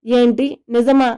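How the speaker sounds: plain reading voice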